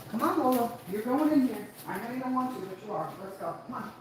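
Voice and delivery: high-pitched pet talk; high, insistent pet voice; coaxing a dog. Real, not acted. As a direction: coax the reluctant dog in a high voice. Coaxing a reluctant dog inside.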